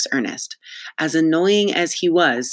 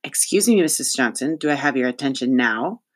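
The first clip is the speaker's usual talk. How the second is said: parroting politeness. Acted. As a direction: dutifully echo the formula with a pointed edge. Cass parrots the principal's formula back.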